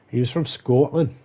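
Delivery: half-hearted attempt at a Scottish accent; bad Scottish accent. Shown as a demonstration. Comedian who can't do accents, attempting a bad Scottish accent. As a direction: have a clumsy go at sounding Scottish. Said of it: "I can't do Scottish accents".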